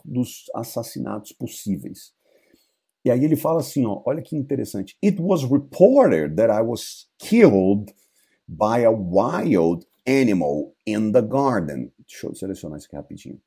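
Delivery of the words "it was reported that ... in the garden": dead father's ghost, slow and hollow. Acted. Ghost telling his death.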